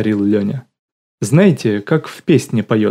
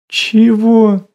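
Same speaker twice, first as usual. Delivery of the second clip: shot up high and loud in disbelief; a high, loud yelp of puzzlement; baffled "what?"; 12 semitones higher, 6 dB louder than usual. Acted. Лёня hearing Lola say she is relaxing, a high, loud baffled yelp. Lyonya baffled by a strange word.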